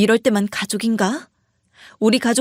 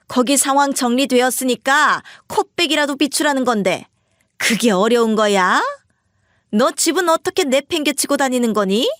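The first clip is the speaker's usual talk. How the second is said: mother-in-law's fiery anger; 5 semitones higher than usual. Retold or imitated. Mother-in-law scolding her daughter-in-law on the phone, acted angry rant. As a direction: fire off reproaches like an outraged mother-in-law. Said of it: "시모는 불같이 화를 내더라고요".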